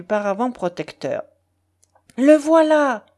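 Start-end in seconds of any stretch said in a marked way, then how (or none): 2.2-3.0 high, loud, excited woman's cry; theatrical high-pitched squeal of recognition; delighted exclamation. A narrator's reading. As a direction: cry out in delight, holding the last word long. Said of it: "s'exclama Alphonsine en battant des mains".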